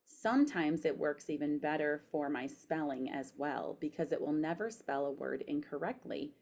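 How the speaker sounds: careful dictation, spoken punctuation; dictating. Shown as a demonstration. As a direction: read it clearly to voice typing. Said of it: "So I'm pushing the microphone".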